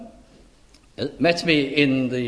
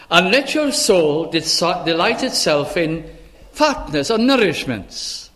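scripture reading. Acted. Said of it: "It's in verse two".

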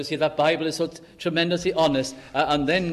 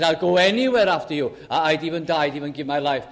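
vehement vow; 5 dB louder, faster than usual. Retold or imitated. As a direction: imitate an overconfident pledge. Acts out Peter's vehement exaggerated vow.

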